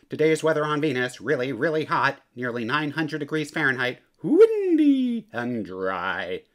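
fast weather-forecaster patter, slowing sharply on the last words; mock weather report. Cat in the Hat playing a Venus weatherman, fast mock forecast. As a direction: rattle it off like a TV forecaster, then drag the ending.

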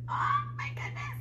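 tiny, very high squeal; amazed squeal. Real, not acted. Painter marvels at the pour, high amazed squeal.

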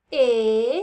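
"Estuche" stretched into es... tu... che, loud, long vowels; "Estuche" counted slowly, one long syllable at a time. Shown as a demonstration. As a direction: draw out each syllable of "Estuche" with pauses between. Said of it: "Vamos a contar con los deditos".

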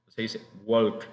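"walk" said as wok with no L; silent L. Shown as a demonstration. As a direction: say "walk" without any L sound. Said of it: "No se pronuncia la L". ("walk" sin pronunciar la L)

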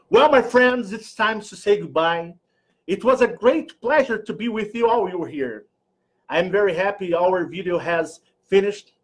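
a light posh English sign-off, grand and proud; lordly English. Pretend. Vlogger saying goodbye in mock posh English. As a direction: play the grand English lord. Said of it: "Eu estou muito lorde".

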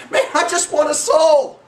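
a touch of acted excitement; excited. Jesus thrilled over a won soul, mildly excited. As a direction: blurt out good news with some lift. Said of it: "He's all excited".

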